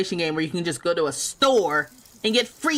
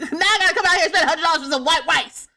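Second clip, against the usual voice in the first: fast, higher, words broken by laughter; laughing through it; 7 semitones higher, 4 dB louder, faster than usual. Real, not acted. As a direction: rattle it off while cracking up. Laughing at the rice price.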